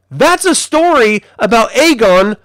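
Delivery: building toward a big reveal; emphatic retort. Retold or imitated. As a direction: act out setting someone straight. Acted revelation of Aegon's identity.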